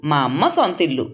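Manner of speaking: mildly pressing the words మా అమ్మ సొంతిల్లు; stressed last sentence. A narrator's reading. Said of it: "చివరి వాక్యం ఒత్తి పలికింది".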